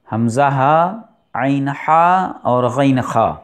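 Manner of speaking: ہمزہ ہا عین حا غین خا each letter said clearly from the throat; throat letters demo. Shown as a demonstration. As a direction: spell out the six throat letters slowly. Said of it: "حروف حلقی چھ ہیں". (حروف حلقی کی واضح ادائیگی)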